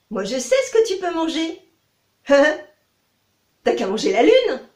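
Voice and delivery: lapin aigu qui rit en parlant; lapin moqueur. Acted. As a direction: se moquer en riant, lentement. Rabbit teases with laugh. (lapin rieur, plus fort)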